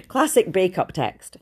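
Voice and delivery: slow whispered aside. Real, not acted. Telling viewers about her breakup text, slow whisper. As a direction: breathe it out as a sly whisper.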